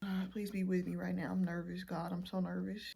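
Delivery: quiet anxious plea to God; soft prayer for help; nervous prayer. Real, not acted. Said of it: "God, help me".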